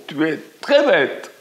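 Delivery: echo. A narrator's reading. The echo returning the girl's insult. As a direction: fling the insult back from afar. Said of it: "l'écho répond".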